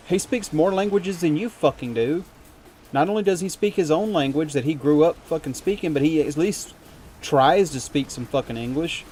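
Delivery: retold rant at a friend who mocked a Chinese waiter; angry rant. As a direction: tear into him for harassing the waiter. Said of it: "I was like".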